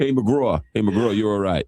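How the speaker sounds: imitated thick Boston accent. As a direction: call out as a Boston buddy would. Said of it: "Boston accent".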